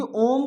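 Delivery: ओम with the ओ held long, slow; prolonged ओ in ओम; drawn-out om. Shown as a demonstration. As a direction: sustain the ओ of ओम, then close on म. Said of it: "हम ऐसे बोलते हैं ओम".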